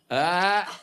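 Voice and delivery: held, blank "ah"; dumbfounded "ah". Shown as a demonstration. Comic shows his reaction, dumbfounded "ah". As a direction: let out a dumb, stalled noise. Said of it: "This is what I do".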